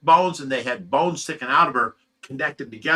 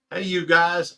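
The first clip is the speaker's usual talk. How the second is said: higher, louder shouted "Hey, you guys"; requested catchphrase shout; 5 semitones higher, 5 dB louder, slower than usual. Shown as a demonstration. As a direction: belt out "Hey, you guys" like the famous movie line. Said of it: "can we get a 'Hey, you guys'".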